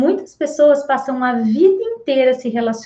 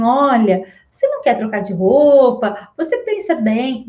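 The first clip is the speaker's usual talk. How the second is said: gentle asking. Retold or imitated. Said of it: "a entonação, o jeito de falar".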